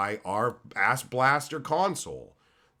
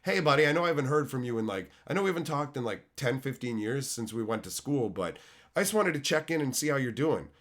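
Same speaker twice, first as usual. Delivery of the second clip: MLM friend opener; 2 semitones higher than usual. Retold or imitated. Imitating an MLM seller reaching out to an old classmate, fast and chummy. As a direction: rush the fake catch-up like an old schoolmate selling. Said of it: "the multi-level marketers who are like".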